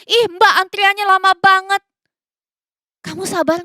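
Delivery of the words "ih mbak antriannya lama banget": put-on higher, louder whiny grumble at the shop girl; mock-irritated nagging at the server; impatient complaint. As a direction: complain that the queue takes forever. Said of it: "Atau kamu marah-marah".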